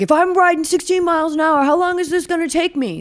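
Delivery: high, pleading mock racer voice; whiny racer voice. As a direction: play the puzzled rider asking the penalty tent. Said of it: "this one guy's like".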